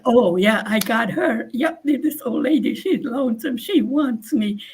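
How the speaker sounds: gloating scammer; smug scammer. Retold or imitated.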